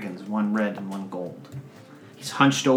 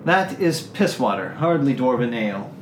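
disgusted lady; 4 dB louder than usual. Acted. Noble lady judging the ale, disgusted. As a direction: spit out her contempt for the ale. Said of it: "She dips a finger in".

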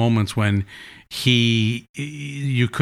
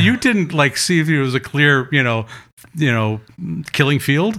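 mock scolding; 4 semitones higher than usual. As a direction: scold Dad in fun. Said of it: "he was so mortified".

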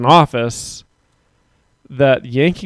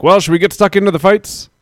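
imitating fight analysts; 5 semitones higher than usual. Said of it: "fight analysis from Dan Hardy".

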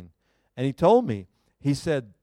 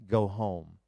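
soft, lower, tender go home; gentle command; 6 semitones lower, 5 dB quieter than usual. Retold or imitated. Pastor recalls God's caring words, soft and tender. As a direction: say it as a loving, quiet instruction. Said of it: "that he would tell me".

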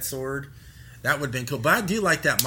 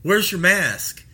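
loud, slow accusing question; mock-scold a shopper who forgot his mask; stern supervisor; 4 semitones higher, 5 dB louder, slower than usual. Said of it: "comes up to me and goes".

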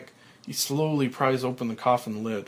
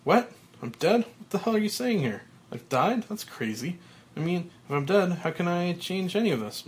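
disbelief; 6 semitones higher than usual. Acted. Frank at his own headstone, shocked disbelief. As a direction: refuse to believe it's your own grave. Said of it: "mouth open in disbelief".

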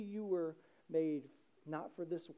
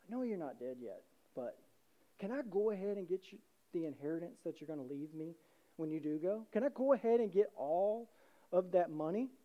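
entitled son asking; 3 semitones lower, 3 dB quieter than usual. Retold or imitated. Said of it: "your son comes to you and goes".

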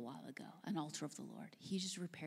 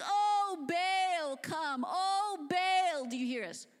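high, loud pleading cries to a god; frantic calling out; 11 semitones higher, 9 dB louder, much slower than usual. Acted. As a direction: beg Baal loudly, over and over. Prophets calling on the ox.

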